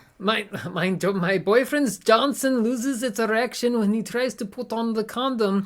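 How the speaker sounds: loud, high, terrible put-on German accent. Voicing Lena Mueller from Dresden, in a bad German accent as Lena Mueller. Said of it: "I have to say this in a German accent here".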